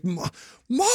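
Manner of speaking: exasperated mock cry of Mom; mock embarrassed protest. Teen mortified by mom at the game, exasperated. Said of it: "I was so mad".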